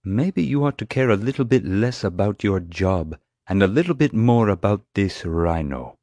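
restrained, pointed anger; angry. A narrator's reading. Atmani glares at the security chief, angry. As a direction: rebuke him with controlled anger. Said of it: "glaring angrily".

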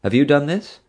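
Mom. A narrator's reading. Mom presses Dad.

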